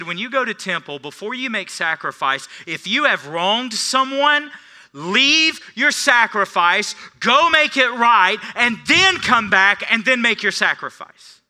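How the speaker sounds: loud, slowed, high preacher's call; preaching at full force. Acted. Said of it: "He said".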